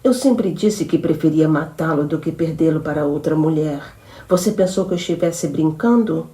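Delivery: possessive, threatening, building to the last word; menacing threat. Acted. Jealous woman threatens her lover. (ameaça possessiva e crescente)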